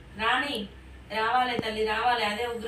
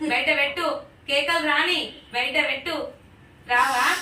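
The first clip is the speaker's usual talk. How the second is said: raised, insistent commanding voice; forceful command; 2 semitones higher, 3 dB louder than usual. Real, not acted. Ritual leader pressing a possessing spirit to come out, forceful command. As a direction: order it out, loud and pressing.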